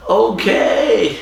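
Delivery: high, laughing cave-in; hammed-up high-pitched defeat; mock reluctant surrender. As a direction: give in with a comic whimper. Acts out caving in to threat.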